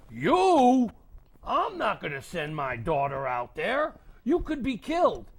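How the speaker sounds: loud, high protest; alarmed father. Acted. Father refusing to send his daughter, loud alarm. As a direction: forbid it, shocked. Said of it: "And her father said".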